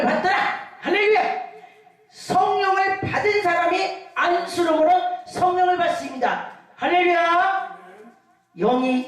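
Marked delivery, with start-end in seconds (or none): 0.8-1.2 quick hallelujah shout. Acted. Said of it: "quick preacher's cry". 6.8-7.8 slow, stretched-out praise call; drawn-out hallelujah. Acted. Preacher stretches out praise to the congregation, slow. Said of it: "drawn-out preacher's cry".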